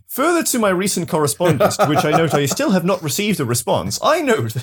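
pompous letter-writer, lightly voiced; stuffy formal letter voice. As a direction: read it like a prim complaint letter. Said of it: "getting this image now of Death writing these things".

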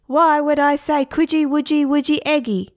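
high, indignant parrot squawk; a parrot scoffing at a silly phrase, high and loud. A narrator's reading. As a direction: let the parrot be offended.

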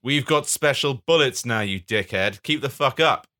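lightly hammed-up villain retort; mock menace; bad man. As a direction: scoff like a comic baddie. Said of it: "says the bad man".

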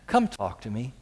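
soft sincere plea to the congregation; sincere appeal. Real, not acted. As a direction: speak gently, inviting them to come. Pastor's sincere personal appeal.

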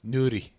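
NUDIE with the middle R tapped, almost a d; rolled R. Shown as a demonstration. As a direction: flick the R in NUDIE like a quick d. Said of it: "You would roll the R".

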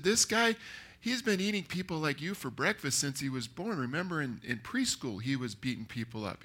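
mock-warn him about a dangerous opponent; worried movie friend. Friend describing the bully he will face, mock alarm. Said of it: "it is, they go".

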